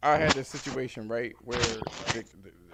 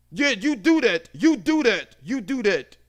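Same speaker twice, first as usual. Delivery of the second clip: higher, louder, taunting dare; defiant customer; 10 semitones higher, 10 dB louder, slower than usual. Retold or imitated. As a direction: dare the agent to do it. Customer dares agent.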